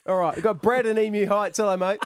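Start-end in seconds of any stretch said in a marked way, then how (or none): none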